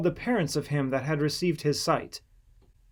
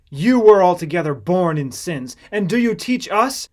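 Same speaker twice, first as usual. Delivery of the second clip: scornful rebuke; 4 semitones higher, 9 dB louder than usual. A narrator's reading. Pharisees scorn the healed man.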